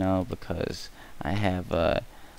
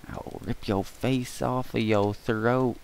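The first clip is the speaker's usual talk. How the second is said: slow, higher hammed-up threat; mock menace; 4 semitones higher, slower than usual. Vlogger jokingly threatens viewers, slow hammed-up menace. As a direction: ham up a cartoon villain threat.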